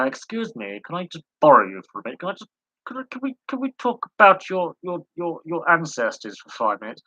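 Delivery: high-pitched, hesitant pretend plea; mock polite request. Acts politely asking deceased relatives.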